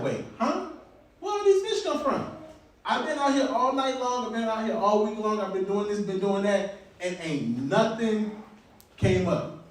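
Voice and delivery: high-pitched acted amazement; hammed-up incredulous outburst; astonished disbelief. Acts Peter amazed at the catch.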